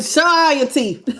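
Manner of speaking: laughing through the words; real light laugh. Real, not acted. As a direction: let the laugh into it. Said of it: "Look at that grin".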